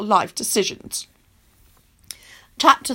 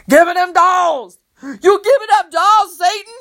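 angry demand; 5 semitones higher, 4 dB louder than usual. Acted. Lucretia thunders up shaking Loretta.

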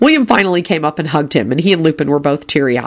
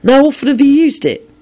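high, eager question; wide-open disbelief; astonished; 10 semitones higher, 3 dB louder than usual. Acted. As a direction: ask it in pitched-up amazement. William amazed, questions his uncle.

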